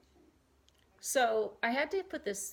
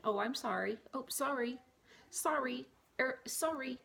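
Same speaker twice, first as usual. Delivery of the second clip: imitating a timid over-apologizer, higher; mock meek little sorries; apologetic sorry; 5 semitones higher than usual. Mocking how people apologize in doorways, timid and higher. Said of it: "there's gotta be a better way to say that than".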